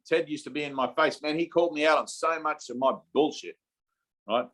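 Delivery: normal talking voice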